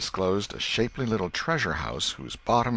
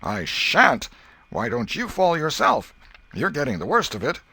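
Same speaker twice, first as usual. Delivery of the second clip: defiant shout; 9 semitones higher, 5 dB louder than usual. Acted. Joe refusing mid-fight.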